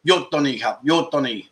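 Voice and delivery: "you're done, you're done" spelled out slowly, word by word; slow Thai demo. Shown as a demonstration. Teaching viewers the Thai for stop, carefully and slowly. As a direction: say the Thai for stop slowly so they can copy it. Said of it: "if you wanna say "Stop".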